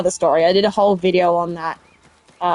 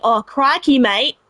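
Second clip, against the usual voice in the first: lightly imitated broad Australian accent, pitched up; Steve Irwin; 5 semitones higher, slower than usual. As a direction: put on a touch of broad Aussie twang. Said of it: "Steve Irwin and he's got the real".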